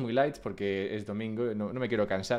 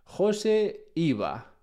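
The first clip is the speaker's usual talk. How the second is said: slow, higher-pitched article opening; reading out; 6 semitones higher, much slower than usual. Retold or imitated. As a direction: quote it slowly, spaced out, like reading aloud. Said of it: "empieza el artículo diciendo".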